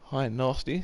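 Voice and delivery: a hint of a cheery character saying hi; playful put-on hello; voicing a viewer. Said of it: "says Bobby boys".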